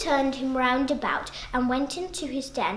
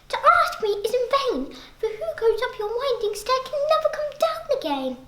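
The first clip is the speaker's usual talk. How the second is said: higher, light voice; little fly; 9 semitones higher than usual. Acted. Little fly telling the spider no one comes back. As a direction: answer nervously but firmly.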